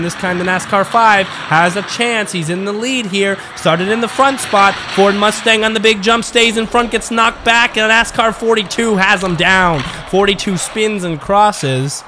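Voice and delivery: lively, rising race call; live race play-by-play. Acted. Commentator calling the Mustang knocked back, lively play-by-play. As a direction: keep the call rolling as the lead changes.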